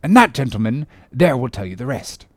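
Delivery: hearty sea captain spinning a yarn; captain's storytelling voice, a little lifted; one-armed captain. Acted. Captain telling gentlemen of his arm, hearty yarn-spinning.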